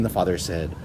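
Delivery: usual speaking voice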